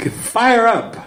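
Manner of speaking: high-pitched mock cheer with a falling end; imitated rallying cry. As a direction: call it out like a persistent chant leader. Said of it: "she keeps saying".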